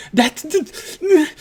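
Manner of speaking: breathless terrified stammer; panicked stutter. Acted. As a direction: stammer in shock. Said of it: "he is stuttering this on".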